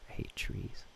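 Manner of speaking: hushed grumble; whispering. Real, not acted. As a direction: whisper it under your breath. Muttered whisper at game.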